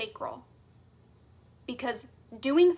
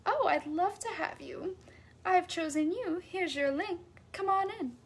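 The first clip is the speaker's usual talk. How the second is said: warm welcome; 4 semitones higher, 4 dB quieter than usual. Retold or imitated. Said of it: "you're like".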